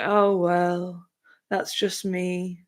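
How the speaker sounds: slow mock-somber shrug; resigned, hammed-up sad girl.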